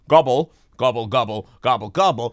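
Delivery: gobbling turkey voice. Pretend. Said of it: "your Americanized turkey language would be like".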